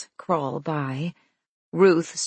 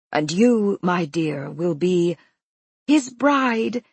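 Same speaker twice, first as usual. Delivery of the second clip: delighted announcement. Acted. Announcing proudly to Ruth.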